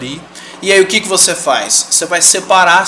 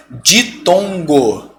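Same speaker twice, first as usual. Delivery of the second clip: drawn-out term; much slower than usual. Shown as a demonstration. Key term drawn out by teacher.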